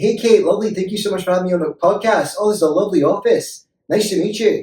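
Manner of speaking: Glaswegian accent, voice pitched very high. Showing the other podcast speaker how people in glasgow speak: glaswegian accent. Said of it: "in Glasgow, they speak like that".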